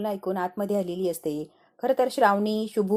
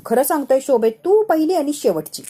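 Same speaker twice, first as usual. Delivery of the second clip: emphatic declaration; 3 semitones higher, 5 dB louder than usual. Acted. Husband swearing to Shobhi she is the only one, emphatic. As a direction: proclaim devotion with force, slowing at the end.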